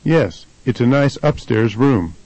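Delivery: "upstairs" stressed on its first syllable, UP. Shown as a demonstration. Tutor's partner answers about the room, stress on UP in "upstairs". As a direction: shift the weight forward to UP in "upstairs". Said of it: "stress changes to the first syllable".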